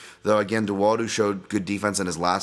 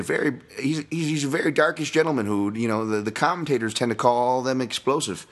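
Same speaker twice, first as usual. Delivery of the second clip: mock euphemism; 4 semitones higher than usual. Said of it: "I always make that joke all the time".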